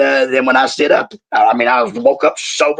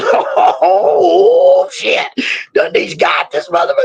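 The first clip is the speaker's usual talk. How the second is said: crowd reaction; slower than usual. Retold or imitated. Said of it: "everybody started going".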